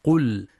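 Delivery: "قل" ending on a distinct vowelless l; clear still lam. Shown as a demonstration. Teacher demonstrating the rule, "قل" with still lam. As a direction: hold the lam of "قل" closed and clear. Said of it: "ولبيان سكون اللام".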